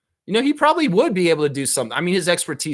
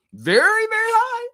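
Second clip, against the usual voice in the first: rising excited emphasis; 5 dB louder than usual. Real, not acted. Hyping Canadian champion chances.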